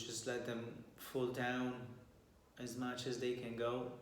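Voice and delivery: calm meditation guide with long pauses; guided meditation. Real, not acted. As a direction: guide listeners gently through posture and breath, leaving long silences.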